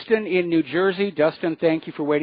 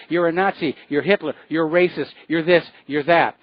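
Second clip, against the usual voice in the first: slightly raised mock accusations; mildly mimicked screaming; 3 dB louder than usual. Host mimicking political opponents hurling insults, mild mock yell. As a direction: imitate screamed name-calling without truly screaming. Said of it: "stand there and scream".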